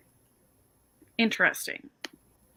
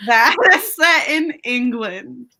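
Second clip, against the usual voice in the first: laughing quote; 2 semitones higher, 6 dB louder, slower than usual. Retold or imitated. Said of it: "she's always like".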